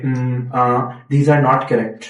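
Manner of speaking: trailing "Hmm, uh" then the words; hesitant demo. Shown as a demonstration. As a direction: show the bad halting pause. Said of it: "इस तरह के पॉजेज ना लें".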